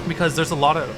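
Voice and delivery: words caught by a hiccup. Real, not acted. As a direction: hiccup breaks the word mid-phrase. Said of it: "I hiccuped a little bit".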